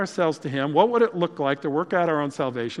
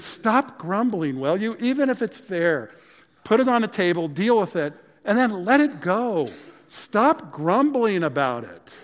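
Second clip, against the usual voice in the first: stern rebuke; 5 semitones higher, 4 dB louder than usual. Acted. God scolding his grumbling people, a stern raised rebuke. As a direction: scold them like a fed-up father.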